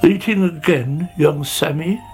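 lightly sighing snail, lifting at the end; mild weary reproach in a character voice. A narrator's reading. Snail finds Sammy eating again, mildly sighing. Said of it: "he sighed".

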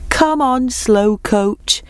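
high teasing call to a slowcoach. A narrator's reading. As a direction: call it out high, falling away. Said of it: "they would call out".

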